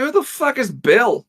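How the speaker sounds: high, baffled outburst. Retold or imitated. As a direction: sound totally confused by the name. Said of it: "I was like".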